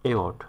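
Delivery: অ্যাওয়ার্ড said clearly, ending in a crisp t sound; teacher models অ্যাওয়ার্ড cleanly, like an English teacher; correct pronunciation. Shown as a demonstration. Teacher shows students the right অ্যাওয়ার্ড, said carefully. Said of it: "সঠিক উচ্চারণ".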